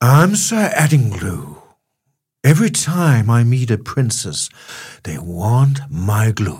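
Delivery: put-on British accent. Speaker redoes the joke line, now in a British accent. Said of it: "Britisk accent".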